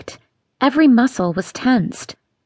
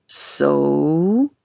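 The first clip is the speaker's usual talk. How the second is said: low, drawn-out Southern So; Southern father beguiling his stepdaughter; beguiling Southern drawl; 7 semitones lower than usual. Acted. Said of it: "he drawled in his most beguiling Southern voice".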